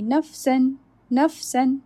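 "nafsan" with a clear hissing seen. Shown as a demonstration. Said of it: "So I will say clearly".

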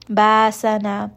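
ba sana with a sharp stop in the throat; abrupt hamza stop. Shown as a demonstration. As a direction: cut the hamza short before sana. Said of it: "make sure that there's that abrupt ba sana".

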